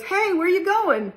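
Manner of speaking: high, slow call to a passing rider; lightly hammed roadside bystander; man calling out. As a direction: shout a curious question up at the horseman. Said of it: "the guy goes".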